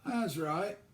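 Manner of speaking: put-on curt old gardener's reply; laconic old man. Old gardener answers the girl, laconic and terse. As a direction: answer short and dry as a wheezing old man.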